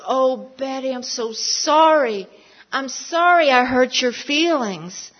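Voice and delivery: retold apology. Retells friend's upset apology.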